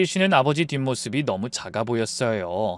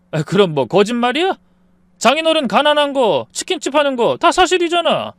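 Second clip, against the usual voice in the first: angry retort; 9 semitones higher, 5 dB louder than usual. Acted. 부부싸움, 남편이 맞받아침.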